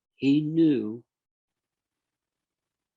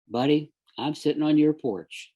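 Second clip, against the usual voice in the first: louder, higher, cheerful call to the dead friend; calling out to a spirit; 4 semitones higher, 7 dB louder than usual. Pretend. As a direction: call out to John across his porch, playfully.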